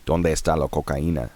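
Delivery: mock tourist Spanish, flat American vowels; Spanish said with a thick American accent; gringo Spanish. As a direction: ask it like a clumsy English speaker trying Spanish. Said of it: "tell me if my pronunciation is right".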